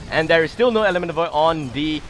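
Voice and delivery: busy, energetic esports commentary; lively game caster mid-fight; live play-by-play. Real, not acted. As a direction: keep the running call moving with urgency.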